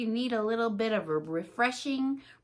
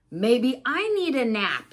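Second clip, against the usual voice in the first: Piggy wondering; 6 dB louder than usual. Acted. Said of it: "says Piggy".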